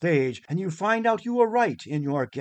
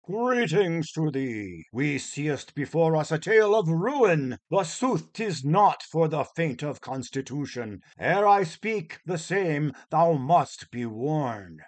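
renaissance fair olde speech; 3 semitones higher than usual. Acted. Actor playing Prologus in olde English.

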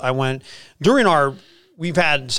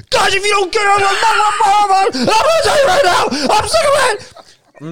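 acted furious coach shout, much higher and louder; maniac screaming; 7 dB louder than usual. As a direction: scream at the team like you've lost it. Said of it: "screaming like a maniac".

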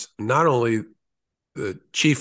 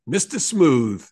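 slow, booming Brooklyn big-man voice; Kenny McCabe; 3 semitones higher, 3 dB louder, slower than usual. Retold or imitated. Legendary law enforcement friend teasing me, imitated booming Brooklyn voice. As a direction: boom it out slowly, imitating a New York accent. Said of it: "he would boom at me".

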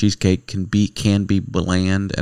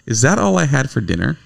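raised, mock-shocked protest; hammed-up stop-the-presses alarm; mock outrage; 5 semitones higher than usual. Husband protesting his dinner to wife, mock shock.

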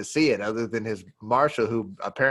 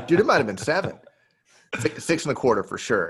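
laughing while bragging; 3 semitones higher than usual. Retold or imitated. Aaron still obsessing, laughing.

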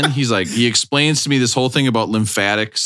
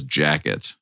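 mock voice of God; 7 semitones lower, 4 dB quieter than usual. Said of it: "a hand comes down and is on my shoulder and says".

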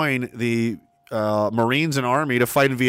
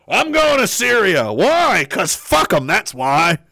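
emphatic, higher-pitched mock yell; drawn-out, swooping, belligerent outburst; gung-ho lunatic; 4 semitones higher, 4 dB louder, slower than usual. Host mimics lunatic heading to war, gung-ho mock yell.

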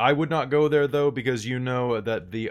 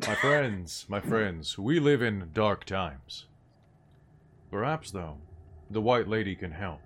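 solemn medium; slower than usual. Acted. Medium opens seance.

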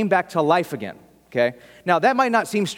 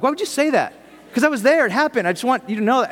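insistent witness; 6 semitones higher, faster than usual. Retold or imitated. Imagined eyewitness defending a detail.

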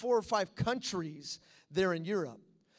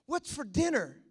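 excited newcomer; 2 semitones higher than usual. Retold or imitated. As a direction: imitate an eager guest. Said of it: "Patrick, he's excited".

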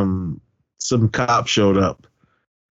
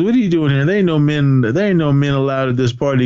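mock indignant objection; 3 semitones higher than usual. Janelle confronting the man at the party, mock indignation. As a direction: act out turning away an intruder.

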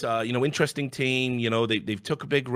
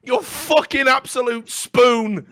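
scornful insult; 10 semitones higher, 4 dB louder, slower than usual. Real, not acted. Insulting the moderators.

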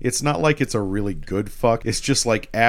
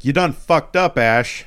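Merlin; 4 semitones higher, 4 dB louder than usual. Retold or imitated. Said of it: "and then Merlin's like".

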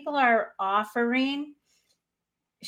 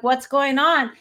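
alarmed concern; 5 semitones higher, 6 dB louder than usual. Retold or imitated. Own concerned reply in story.

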